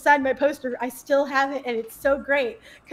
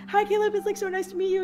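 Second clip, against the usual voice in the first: nervous squeak; 7 semitones higher than usual. Retold or imitated. Nervous fan greeting.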